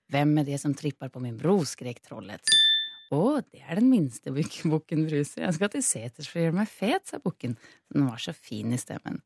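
storytelling voice reading a fairy tale; troll folktale telling. Acted. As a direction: read it like a bedtime folktale. Reads folktale aloud in Swedish/Norwegian.

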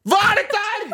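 high, stunned repeated question; shocked disbelief. Retold or imitated. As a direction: play the soaked guy who can't believe it. Soaked by fire hose quote.

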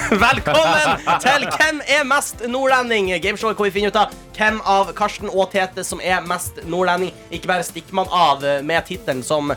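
upbeat host intro; game show host. Acted. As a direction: welcome them like a quiz host. Hosts the gameshow. (programleder i spørreprogram)

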